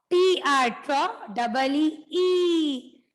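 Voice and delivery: slow letter-by-letter spelling; sounding out the letters. Shown as a demonstration. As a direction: spell the word out for the class. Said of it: "unjumble the letters".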